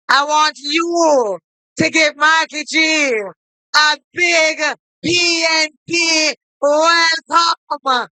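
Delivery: shouted welcome to the crowd; rousing call-out. Real, not acted. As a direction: call it out to rally the room. Chair calls for a big welcome.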